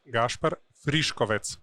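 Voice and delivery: Gaspar Friškovec said as a native Slovenian says it; correct native pronunciation. Shown as a demonstration. Guest shows host how his name is pronounced, correct native pronunciation of Gaspar Friškovec. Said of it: "go ahead and pronounce it correctly".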